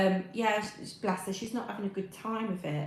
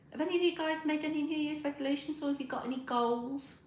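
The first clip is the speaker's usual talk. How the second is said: "Have any of you guys made any New Year's resolutions" asked again higher and faster; higher, quicker repeat of the question; 8 semitones higher than usual. Shown as a demonstration. To her live chat, asking again higher and faster. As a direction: pitch it up and speed through the repeat.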